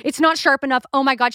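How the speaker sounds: hammed-up alarmed sister on the phone; mock panic, words tumbling out fast; freaking out. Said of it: "She's like".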